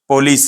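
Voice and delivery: "पुलिस" in two quick syllables, ending on s; correct pronunciation. Shown as a demonstration. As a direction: say "पुलिस" short, as "po-lees". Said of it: "ये सही word है". ("पुलिस" को छोटा, साफ बोलें)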